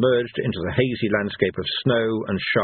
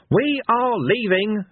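shouted; 13 semitones higher, much slower than usual. A narrator's reading. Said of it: "shouted Cohen".

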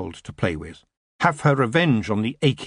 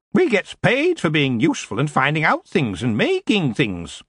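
higher, rough goblin voice, ungrammatical and cocky; cheeky goblin; 6 semitones higher than usual. A narrator's reading. Goblin prisoner cheeking the queen, cocky goblin voice. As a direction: grin while you talk back.

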